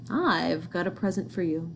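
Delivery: mock-sweet, lightly sugary invitation; sweet as sunshine. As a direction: fake kindness, barely sweetened. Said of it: "my voice sweet as sunshine".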